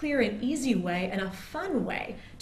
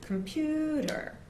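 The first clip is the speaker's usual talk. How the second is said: comPUter with a high, slow peak on the stressed syllable; pitch height stressed; 7 semitones higher, slower than usual. Shown as a demonstration. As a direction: lift the pitch on PU, slowly. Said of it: "clap in this direction".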